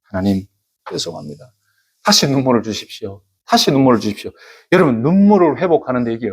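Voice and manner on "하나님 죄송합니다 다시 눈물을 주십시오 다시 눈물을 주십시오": retold contrite plea, starting low and hushed; repentant prayer. Preacher replaying his prayer to God, repentant. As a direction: murmur an apology, then ask humbly. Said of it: "그래서 회개했죠".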